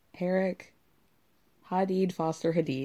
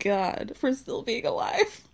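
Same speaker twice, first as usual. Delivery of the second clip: slowed, voice wobbling with held-back laughter; trying not to crack up; laugh-cracked reading; 3 semitones higher, slower than usual. Real, not acted.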